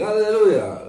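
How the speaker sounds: loud, high, drawn-out Alleluja; exuberant priest. Acted. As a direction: belt it out to a big church. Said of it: "wychodzi ksiądz i mówi".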